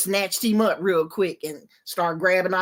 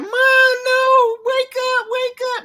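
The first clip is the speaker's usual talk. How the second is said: retold crying plea; 5 dB louder than usual. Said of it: "started crying".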